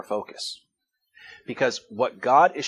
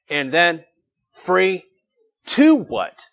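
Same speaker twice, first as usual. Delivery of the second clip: building rhetorical question; 5 semitones higher, 8 dB louder, much slower than usual. Real, not acted.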